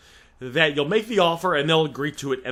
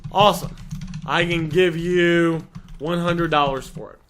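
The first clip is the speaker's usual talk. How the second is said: demo offer line. Shown as a demonstration. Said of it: "This is how you make the offer".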